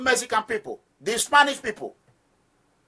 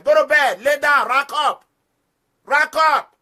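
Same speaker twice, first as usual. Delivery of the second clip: louder, higher, slow barked commands; guard yelling lights-out at the cell block; prison guard orders; 5 semitones higher, 3 dB louder, slower than usual. Shown as a demonstration. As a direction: order the inmates to their bunks. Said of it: "I talk a lot in the prison".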